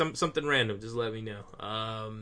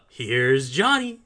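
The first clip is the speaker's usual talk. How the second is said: slow, drawn-out horror movie line, louder, laughing through it; mock Here's Johnny; 7 dB louder, much slower than usual. Pitching his pull-string quote to his cohost, slow and hammed-up. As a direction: stretch it out like the famous axe scene.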